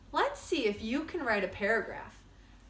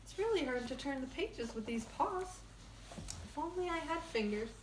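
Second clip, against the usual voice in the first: quiet aside; 4 semitones higher, 9 dB quieter, faster than usual. Pretend. Aside pretending to have paws.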